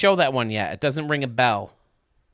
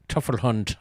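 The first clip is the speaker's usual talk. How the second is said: put-on German accent. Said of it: "I try to say it in that accent".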